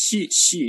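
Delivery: শি with a thick sh sound; thick shi. Shown as a demonstration. Teacher showing the sound inside shin, thick shi. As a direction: make শি a full, heavy sh. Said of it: "একটু মোটা করে আনতে হবে".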